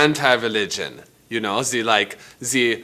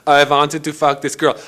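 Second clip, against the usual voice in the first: mocking Anthony; 5 semitones higher, 6 dB louder than usual. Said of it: "Anthony came along and says".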